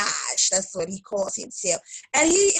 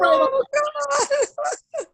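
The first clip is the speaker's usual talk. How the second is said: real laughter; laughing cry. Real, not acted. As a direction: squeal it through laughter. Laughing at her own story.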